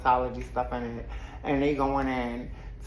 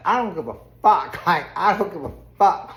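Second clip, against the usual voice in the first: louder, quick mock defiance; Kelsey; 2 semitones higher, 5 dB louder than usual. Kelsey brushing off Rosie's warning, imitated defiant comeback. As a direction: throw it back hard, half amused.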